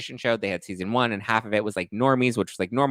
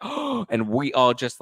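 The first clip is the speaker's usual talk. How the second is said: gasp; 4 semitones higher, much slower than usual. Retold or imitated. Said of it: "have a gasp".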